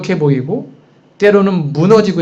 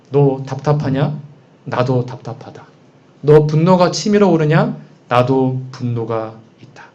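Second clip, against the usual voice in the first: lightly voiced God; 5 semitones lower than usual. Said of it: "이때 하나님의 음성을 다윗은 들었겠죠".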